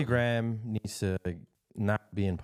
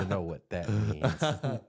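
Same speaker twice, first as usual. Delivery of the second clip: landlord voice; much slower than usual. Pretend. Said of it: "come in the room and be like".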